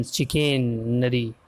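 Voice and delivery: चिकनरी drawn out slowly, syllable by syllable; slow sounding-out. Shown as a demonstration. Teacher repeats the word after spelling it, slow sounding-out. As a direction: stretch चिकनरी out at half speed.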